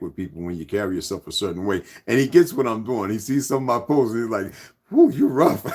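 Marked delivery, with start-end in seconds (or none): 4.9-5.6 high, loud mock English accent; imitated English accent. Friend in England reacting to posts, mock English accent. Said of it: "When you hear him in his accent".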